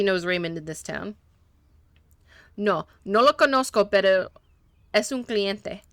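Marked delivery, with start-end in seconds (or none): 2.6-5.8 lightly put-on Spanish accent, broken English; a hint of a Spanish-speaking mechanic, eager to please; gentle Spanish accent, a little nervous; mechanic's Spanish accent. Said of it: "that was on purpose that he was talking that way".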